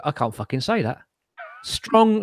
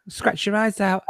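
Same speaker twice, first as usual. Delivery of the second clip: a growling beast voice, slightly higher; failed Chewbacca growl; 4 semitones higher, 3 dB quieter than usual. Acted. Trying a Chewbacca growl for the stream, a wobbly beast voice. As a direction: growl it like a clumsy tiger. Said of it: "it comes out like a gay tiger".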